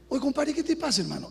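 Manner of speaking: light Peruvian street talk to a compadre; a hint of a Peruvian scolding a buddy. Pastor scolding a married man in a light Peruvian manner. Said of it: "Ahí estoy hablando como peruano".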